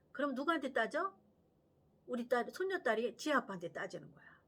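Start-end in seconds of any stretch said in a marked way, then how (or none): none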